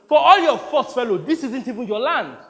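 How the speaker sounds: laughing scorn through the words; mocking laugh. Actor mocking the producer while laughing. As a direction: sneer with a laugh.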